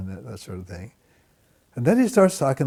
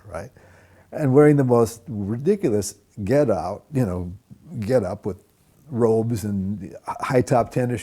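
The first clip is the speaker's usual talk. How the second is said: scornful. Retold or imitated. Retold scornful thought about Hare Krishnas.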